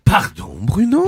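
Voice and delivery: mock apology. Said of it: "je vais le refaire".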